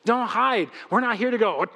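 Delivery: usual speaking voice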